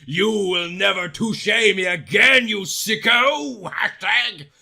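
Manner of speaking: loud, high furious wail. Acted. Girl wailing at Edward after he touched her. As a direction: scream at him as you hit him. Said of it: "I wailed".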